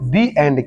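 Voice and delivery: The said as "thee" in "The end"; "thee" before a vowel. Shown as a demonstration. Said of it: "क्या पढ़ोगे?". ("The end" में The को "दी" बोलें)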